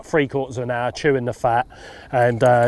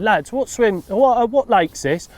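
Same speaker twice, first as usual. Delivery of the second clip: higher, sheepish question; 7 semitones higher than usual. Retold or imitated. Angler asking the lads which lake this is, sheepish and high. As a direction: lift the pitch, asking a little too innocently.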